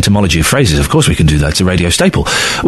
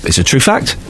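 lightly mock-insistent caller; imitating a caller; 5 semitones lower, 3 dB quieter than usual. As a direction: gently parody someone swearing it's true. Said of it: "I love the way people qualify things by going".

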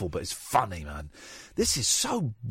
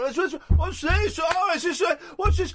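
flounce in high and camp, darling; high Freddie; 8 semitones higher than usual. Retold or imitated. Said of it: "Freddie comes in late, like, high".

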